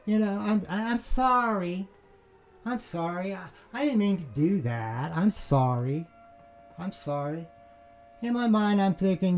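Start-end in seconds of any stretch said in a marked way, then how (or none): 0.1-7.5 sudden apologetic tone. Retold or imitated. Angry neighbour suddenly backing down, high sheepish apology. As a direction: whine it like a sheepish neighbour caught out. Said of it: "his tone quickly changes to".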